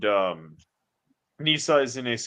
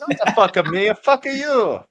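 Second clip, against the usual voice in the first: silly high voice; 10 semitones higher, 4 dB louder than usual. Acted. Playful retort, high voice.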